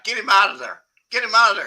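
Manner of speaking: loud, panicked repeated order; urgent yell. Retold or imitated. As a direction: shout it like a friend losing his cool. Buddy Nick panicking at party.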